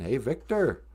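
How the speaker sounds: half-convincing try at the movie character's accent; Thomas Builds a Fire. Shown as a demonstration. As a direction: have a go at his accent. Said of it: "I can do Thomas Builds a Fire accent".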